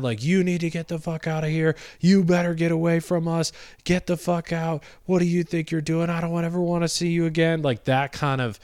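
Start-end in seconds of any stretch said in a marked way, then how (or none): 0.2-7.6 put-on teen girl freaking out. Teenage girl ordering the canvasser off her property, a mild mock freak-out. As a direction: act out the angry teen driving him away. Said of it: "freaking out".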